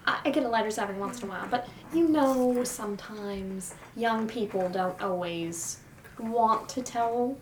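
a gentle hint of a sweet old lady; elderly lady voice. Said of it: "her adorable elderly old lady voice".

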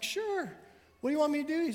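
high, bright-eyed willing reply; eager husband. Retold or imitated. Husband answering his wife's request, high and eager. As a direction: chirp it up like a keen husband. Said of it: "And he's like".

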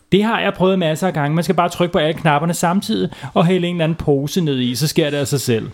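lightly voiced cocky boy; boy Kalle.

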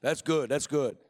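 low, softened knowing approval; lightly mock-profound murmur of agreement; feigned deep understanding. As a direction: pretend it makes profound sense. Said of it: "I just had a real deep look on my face going".

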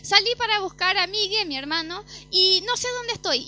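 high, loud, panicked plea; tearful and desperate; almost crying. Retold or imitated. Lost on the highway, telling her father, near tears. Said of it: "casi llorando".

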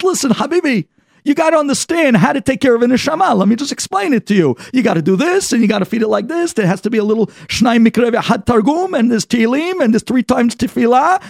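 lecturing angel. Acted. The malach lecturing the man on caring for the neshama, insistent. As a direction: pile on the duties, pressing hard.

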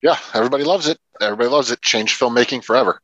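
sarcastic. Pretend. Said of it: "we're being, uh, sarcastic".

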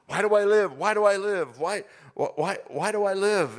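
obsessive, rising inner question; haunting question. Retold or imitated. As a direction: press the question over and over. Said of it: "I couldn't get it out of my head".

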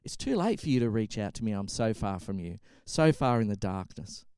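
low, sinking lament; acted despair. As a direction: let the voice drop into hopelessness. Psalmist's plea sinks into hopelessness.

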